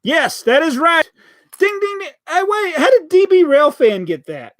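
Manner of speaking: high, bright game-show excitement; delighted ding ding ding; excited. Real, not acted. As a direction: cheer like a quiz host awarding points. Viewer guesses answer correctly.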